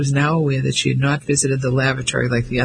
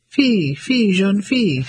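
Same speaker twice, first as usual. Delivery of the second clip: raised, higher urgent calling in French; man's call; 5 semitones higher than usual. Acted. Lorry driver calls to the car for the girl, raised and urgent.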